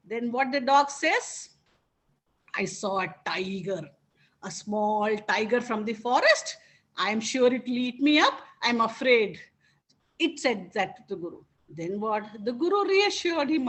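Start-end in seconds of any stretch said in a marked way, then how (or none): 2.5-9.4 frightened dog. Acted. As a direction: pull the voice down low and small, as if shivering. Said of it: "came back trembling and shivering".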